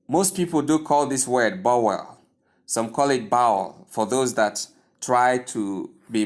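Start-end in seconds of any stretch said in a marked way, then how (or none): 1.6-2.2 "bowel" said as "bow-well"; "bowel" for bowl, broken in two; wrong bowl, two syllables. Shown as a demonstration. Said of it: "both pronunciations are wrong". 3.3-3.9 "bowel" said with the vowel of "now"; "bowel" for bowl, as "baul"; wrong bowl, OW vowel. Shown as a demonstration. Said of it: "both pronunciations are wrong".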